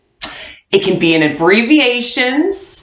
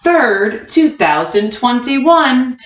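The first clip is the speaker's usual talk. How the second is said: read-along; slower than usual. Shown as a demonstration. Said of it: "Read it with me, kindergartners".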